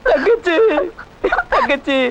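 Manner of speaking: high tearful cry of her name; crying call. Acted. Brother weeping as he calls his sister, crying.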